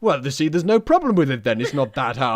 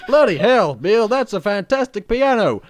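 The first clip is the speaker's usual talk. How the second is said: cowboy voice; 7 semitones higher, 6 dB louder than usual. Pretend. Wild West advert role.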